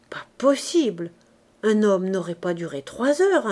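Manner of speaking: whispered disbelief; amazed whisper. Acted. Neighbours astonished by Gervaise's tale, whispering. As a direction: breathe it out in astonishment.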